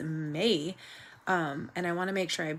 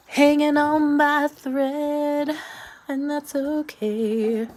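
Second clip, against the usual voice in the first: laughing; 9 semitones higher, 10 dB louder, slower than usual. Real, not acted. Laughing through a tough day.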